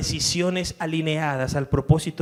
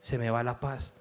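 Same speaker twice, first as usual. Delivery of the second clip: peaceful voice of God. Retold or imitated. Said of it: "La voz de Dios te dice".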